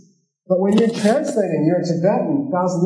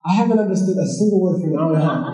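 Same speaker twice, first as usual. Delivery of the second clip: laughing protest; faster than usual. Retold or imitated. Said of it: "And I'm like".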